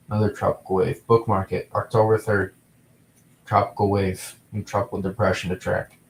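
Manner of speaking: slightly muffled, hand over mouth. Real, not acted. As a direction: talk through a hand over your mouth. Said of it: "I might have had my hand over my mouth a little bit".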